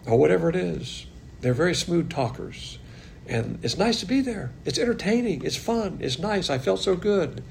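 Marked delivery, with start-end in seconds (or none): 3.3-7.4 higher-pitched, lightly mocking enthusiasm; mock gushing. Preacher mimicking churchgoers who just feel good, mock gushing. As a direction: imitate a delighted churchgoer, pitched up.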